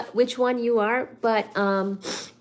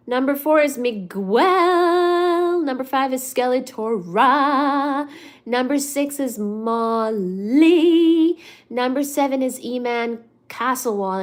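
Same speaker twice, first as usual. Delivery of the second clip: announcer; 3 dB louder, slower than usual. Acted. Announcing top fans.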